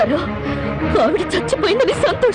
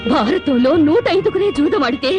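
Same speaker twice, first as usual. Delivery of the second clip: tearful outburst; 3 semitones higher than usual. Acted. Wife berates gambling husbands.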